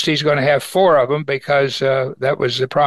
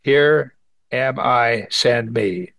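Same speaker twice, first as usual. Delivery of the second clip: humble offering; 2 semitones lower, much slower than usual. Acted. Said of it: "Then Isaiah said".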